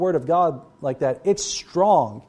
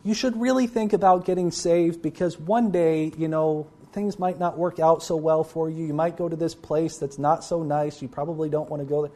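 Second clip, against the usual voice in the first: softer, hedging, trailing away; timid watered-down warning; 4 dB quieter than usual. Retold or imitated. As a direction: gently mumble the warning so it loses its force. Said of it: "us going out into the world and saying".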